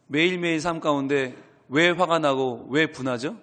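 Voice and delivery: ordinary talk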